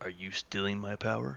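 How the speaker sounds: whispered, in a character voice. Voicing a character leaning close to ask a secret question: whispering in character. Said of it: "I whisper".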